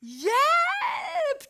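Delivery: high, loud yelp of panic; cry for help. Retold or imitated. Rider yelling for help as the horse rears, panicked shout. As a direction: shout it out, suddenly scared.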